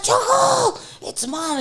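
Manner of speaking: very high, loud sing-song call; high pet-talk call to a little dog; calling her dog. Retold or imitated.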